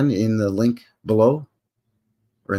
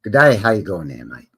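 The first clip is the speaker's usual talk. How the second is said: lightly put-on Australian accent; 5 semitones lower than usual. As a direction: greet like an Aussie mate. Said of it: "And down under, do they say".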